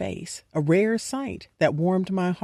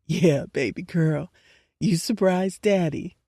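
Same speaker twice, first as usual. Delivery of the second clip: voice cracking. Acted. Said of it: "Legacy's voice cracked a bit".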